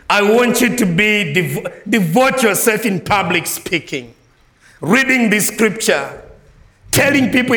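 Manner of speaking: put-on Paul urging young Timothy, preaching full force; voicing Paul's charge. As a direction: plead with the young man as Paul.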